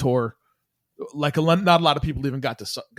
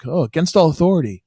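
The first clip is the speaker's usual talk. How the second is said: slightly raised mock shout; imitated yell back; 4 semitones higher, 4 dB louder than usual. Kid outside the show answers the girl, mild mock yell. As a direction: toss back a reply, lightly mimicking a yell. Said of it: "one of the kids yelled back".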